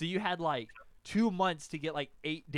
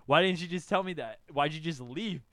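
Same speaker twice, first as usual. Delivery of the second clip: louder, indignant questioning; accusing confrontation; 7 dB louder than usual. Retold or imitated. Boy confronting his girlfriend about Ethan, indignant. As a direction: press them with mild indignation.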